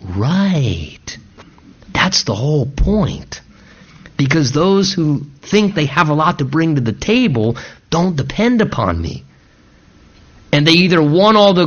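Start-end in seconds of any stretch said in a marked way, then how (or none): 0.0-9.2 God. Acted. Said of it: "you almost wonder as God is going".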